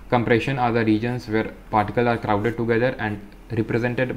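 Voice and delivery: slow, careful reading aloud; textbook reading. Acted. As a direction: read each phrase out slowly for students. Reads textbook text aloud. (धीमी, साफ़ किताबी पढ़ाई)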